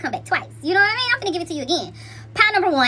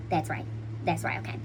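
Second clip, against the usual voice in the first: low affirming; 9 semitones lower, 10 dB quieter than usual. Real, not acted. Affirming answer to viewers.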